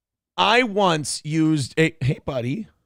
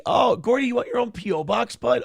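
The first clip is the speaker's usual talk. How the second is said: high, sing-song voice for the dog; doggy talk; 6 semitones higher than usual. Real, not acted. Owner cooing to his dog, high and sing-song.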